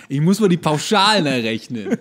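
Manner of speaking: mocking the neighbour's excuse, played up; mock tax talk. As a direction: parody a dull tax chat.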